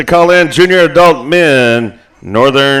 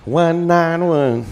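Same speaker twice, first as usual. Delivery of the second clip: slow, quieter mock ad-read of the numbers; mock commercial voice; 6 dB quieter, slower than usual. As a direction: tease him by copying his announcer read. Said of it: "you kinda sound like a commercial".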